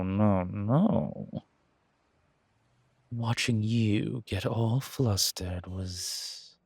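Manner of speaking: lightly voiced seductive stranger, breathy asides; a touch of a sly seducer; sultry flirt. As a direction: tease the flustered traveller, a hint of purr.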